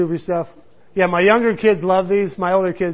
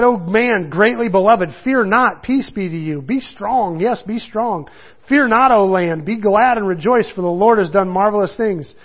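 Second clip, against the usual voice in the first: a slightly raised, earnest Bible reading; scripture reading. Acted. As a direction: read it out to the congregation. Reads scripture aloud.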